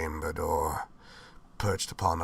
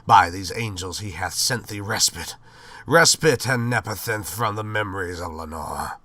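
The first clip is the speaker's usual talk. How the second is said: crying out; 2 semitones higher, 6 dB louder than usual. Acted. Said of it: "I cried".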